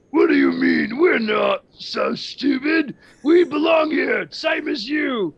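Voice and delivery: high, loud indignant ogre shout; angry shout. Acted. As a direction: yell back, offended and proud.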